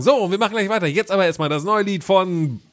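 upbeat radio presenter; radio host voice. Pretend. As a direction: announce it like a radio DJ. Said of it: "Also wir machen eine Radioshow und könnten einfach sagen".

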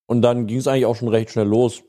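talking with a mouthful; chewing between words; eating cereal. Real, not acted. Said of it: "Sorry, ich esse grad nebenher". (mit vollem Mund sprechen)

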